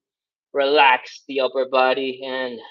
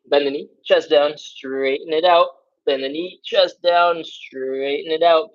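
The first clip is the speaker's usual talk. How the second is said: slow, drawn-out cue; unhurried coaching cue; slower than usual. Shown as a demonstration. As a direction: take the cue slowly, stretching each word. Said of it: "You can slow down".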